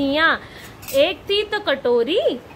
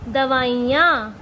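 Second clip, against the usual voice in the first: दवाइयाँ said slowly, the ending drawn out; stretched plural ending; 3 semitones lower, slower than usual. Shown as a demonstration. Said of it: "ये है दवाई और ये हो गई दवाइयाँ". (दवाइयाँ धीरे और खींचकर बोलें)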